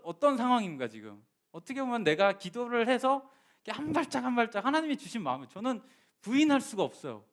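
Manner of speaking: rising, urgent sermon to the congregation; full-force preaching. Acted. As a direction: preach it out with fervour. (회중에게 열정적으로 설교하듯)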